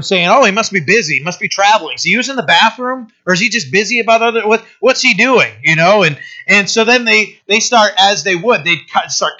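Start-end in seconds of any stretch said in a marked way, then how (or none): 0.3-5.5 higher, quicker sarcastic jibes; mocking taunt. Elijah ridiculing the silent Baal, sarcastic and quick. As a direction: needle them about their silent god. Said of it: "he starts mocking him".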